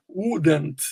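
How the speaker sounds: "Wouldn't" with a short oo. Shown as a demonstration. Teacher pointing at the short U, "Wouldn't" with short oo. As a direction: say "Wouldn't" with a brief oo in the first syllable. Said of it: "esse uzinho curto".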